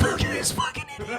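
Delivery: very high, soft squeaky mockery; mocking squeal. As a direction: squeal it like you're cackling at a pal. Mocking guys seen in photo.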